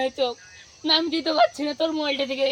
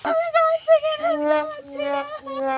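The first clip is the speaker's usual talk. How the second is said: very high, slow wailing ghost; 12 semitones higher, much slower than usual. Acted. Stuck ghost pleading from the tree, slow high wail. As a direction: stretch it out in a thin ghostly wail.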